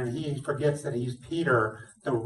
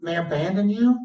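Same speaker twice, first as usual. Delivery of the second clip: raised, earnest vow of loyalty; lightly voiced Peter, pitch lifted as he promises; Peter's boast; 3 semitones higher than usual. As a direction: swear it like a proud friend.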